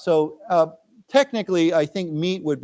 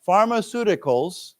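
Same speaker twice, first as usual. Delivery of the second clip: slow model reading; 5 semitones higher than usual. Shown as a demonstration. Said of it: "let's read this".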